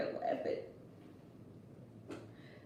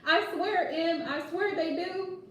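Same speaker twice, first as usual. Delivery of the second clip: laughing; 5 semitones higher than usual. Real, not acted. Host swearing it's true to viewers, laughing. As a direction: say it through laughter.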